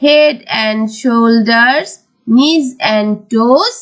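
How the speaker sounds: slow, measured nursery-rhyme reading; very slow, phrases lifting, then falling to close; rhyme recitation. Shown as a demonstration. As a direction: recite line by line for pupils to follow. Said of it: "তাহলে আমরা রাইমসটা পড়ি".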